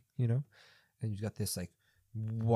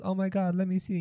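put-on excited kid; 9 semitones higher than usual. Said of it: "the little kid goes".

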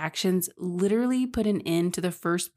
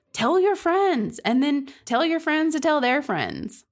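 higher, bright plea for reviews; eager pleading; 5 semitones higher than usual. Real, not acted. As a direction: coax the listeners, pitch up and eager. Begging listeners for podcast reviews.

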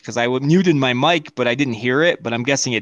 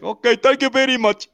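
mock polite thanks; 7 semitones higher than usual. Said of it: "I was like".

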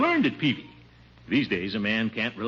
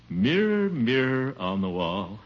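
vain mirror recital. Acted. Vain preening before mirror.

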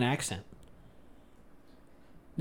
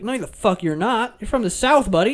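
higher-pitched mock-indignant Southern-origin rebuttal; retold incredulous denial; 6 semitones higher than usual. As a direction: re-enact setting a buddy straight. Retells disputing the man's origin.

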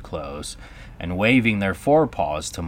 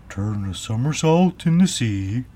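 crying out; 5 semitones higher, 4 dB louder than usual. A narrator's reading. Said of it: "cried the Mock Turtle".

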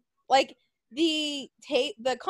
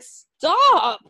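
sharp stop; 6 semitones higher, 6 dB louder than usual. Retold or imitated. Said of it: "Gal's like".

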